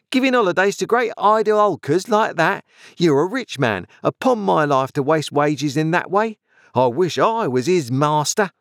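high-pitched, indignant nagging; scolding shrew of a wife. Acted. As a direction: berate your husband in a high voice. Sister scolds Joe.

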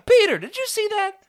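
very high, loud, breathless excited shout; excited call. Acted. Kid yelling to friend about a ship overhead, very high and excited. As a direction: shout it, amazed at the sky.

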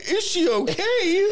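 drawn-out sarcastic okay; mock concern. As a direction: stretch it out in fake worry. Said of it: "And I'm like".

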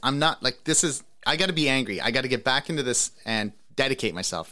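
mock furious self-talk; angry pump-up quote. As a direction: imitate an athlete psyching himself up, a touch hammed. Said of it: "he was like".

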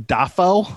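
Dafoe with a rising end, as in introducing oneself; name's own pronunciation. Retold or imitated. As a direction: say Dafoe carefully, his own way, tipping up at the end. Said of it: "he introduced himself as Willem".

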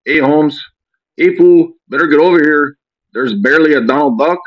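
put-on high, loud Cholo street accent; playful exaggerated Cholo voice. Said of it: "my Cholo voice is funny".

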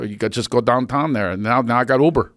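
imitated Pittsburgh accent. Host teases guest from Pittsburgh, imitating the Pittsburgh accent. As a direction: mimic broad Pittsburgh vowels. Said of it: "you just turned into Pittsburgh".

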